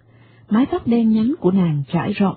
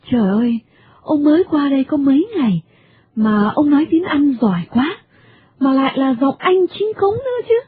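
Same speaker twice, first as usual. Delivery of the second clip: bright, much higher, cheerfully gushing; cheerful American lady; 4 semitones higher than usual. Acted. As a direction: gush with delight like a chatty foreign lady. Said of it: "vui vẻ". (giọng bà Mỹ vui vẻ, cao hẳn lên)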